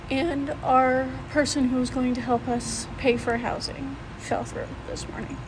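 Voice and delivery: shaky, worn-out voice after crying. Real, not acted. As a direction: talk through the tail end of tears. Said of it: "sorry, I've been crying and I'm trying to get my emotions out".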